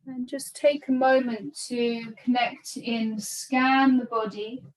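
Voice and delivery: calm, unhurried meditation guidance with long pauses; measured yoga-teacher breathing cues; guided meditation. Real, not acted. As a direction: guide them gently into body and breath, leaving space between phrases. Guides breath and body awareness.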